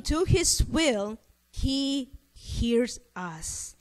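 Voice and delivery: slow, measured Bible reading; unhurried, weighted reading from scripture. Acted. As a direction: read the verse out deliberately. Reads a Bible verse aloud.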